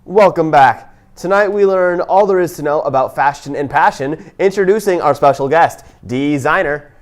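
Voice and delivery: upbeat host introduction; talk show host. Acted. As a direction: welcome the audience warmly.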